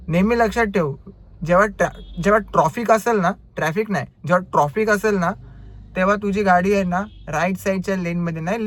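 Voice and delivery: imitating the customer laying down the law, with ट्रॉफिक for traffic; bossy lecturing. Driver's corrected take of the customer's advice, loud and bossy. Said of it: "कसं बोललं माहिती आहे?".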